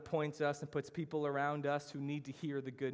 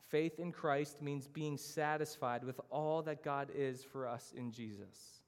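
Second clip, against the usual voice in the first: slow repeat for note-takers; slow reading. Shown as a demonstration. Preacher reading the definition twice for note-takers, slow reading. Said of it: "I'll read it slow".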